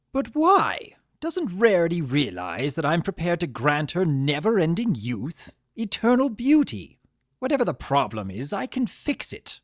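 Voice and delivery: high, loud bursts of disbelief; bewildered and hurt. Acted. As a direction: plead in hurt confusion. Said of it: "look of bewilderment and hurt".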